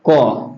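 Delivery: क said low and settled as the result; low final क. Shown as a demonstration. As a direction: land क low as the answer. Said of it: "क हलंत जोर अ बराबर". (क को नीचे सुर में पूरा करना)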